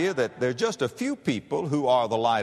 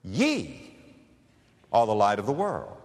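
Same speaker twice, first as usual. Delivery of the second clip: quoting Jesus; 5 semitones lower than usual. Acted. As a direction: lift the verse as Christ's own words. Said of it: "Jesus Christ in verse fourteen says".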